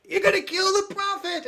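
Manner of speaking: high, loud shrieking rant, rising to a scream; crazed ranting shout. Retold or imitated. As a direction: rant like a madman being hauled off. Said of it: "he's ranting".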